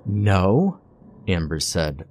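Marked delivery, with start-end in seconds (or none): 0.1-0.8 urgent. A narrator's reading. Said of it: "urgency in her voice".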